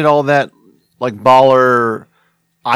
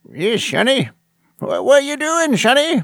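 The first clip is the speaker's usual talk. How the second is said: put-on swooping, high elderly man voice; 12 semitones higher than usual. Challenged to prove he can do voice impressions, does an old man voice. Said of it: "That's my old man".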